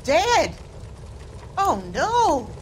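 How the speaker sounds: stunned, pitch lifting on the news; shocked landlady hearing of a death; shocked disbelief. Acted. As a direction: take in terrible news with dismay. Landlady hears of lodger's death.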